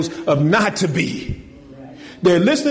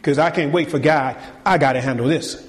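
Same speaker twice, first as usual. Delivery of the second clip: lightly acted impatient churchgoer, lower pitch; impatient complainer; 5 semitones lower than usual. Preacher acts out a churchgoer driving off to confront someone, lightly voiced impatience. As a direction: play someone who can't wait, voice dropped a little. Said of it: "you gotta get in your Jeep".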